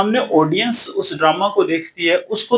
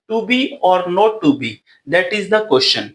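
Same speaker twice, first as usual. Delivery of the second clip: slow quote reading; much slower than usual. Shown as a demonstration. Quoting Hamlet soliloquy slowly.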